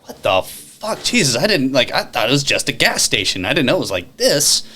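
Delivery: astonished, rising up high; amazed reaction. Retold or imitated. Friend seeing Buc-ee's for the first time, amazed. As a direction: gush like a first-time visitor amazed by the store. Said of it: "They go".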